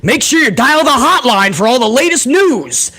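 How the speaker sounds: lightly voiced wrestling hotline pitchman; a hint of swooping promo-announcer delivery; Mean Gene Okerlund. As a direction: sell it like a pay-per-view announcer. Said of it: "or Mean Gene Okerlund".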